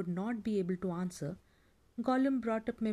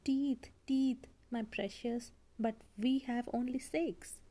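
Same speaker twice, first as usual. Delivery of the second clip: higher, gloating creature voice; lightly voiced gleeful creature; Gollum voice; 3 semitones higher than usual. Gollum voice held in story.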